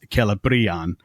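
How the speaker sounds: "Celebrian" with the stress on bri, a long vowel; Cel-e-BRI-an, long bri stressed. Shown as a demonstration. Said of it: "with the emphasis on the bri".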